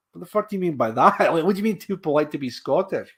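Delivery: retold comeback, half laughing in disbelief; mock indignation. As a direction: fire back as if amusedly affronted. Retelling his indignant comeback.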